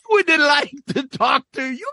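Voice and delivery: high, prim Cosby impression. Quoting Eddie's Cosby lecturing about cursing. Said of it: "that fucking whole bit".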